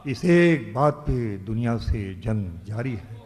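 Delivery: declaiming a ghazal couplet; ghazal recitation. Acted. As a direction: recite each line like poetry on stage. Poet recites verse at mushaira.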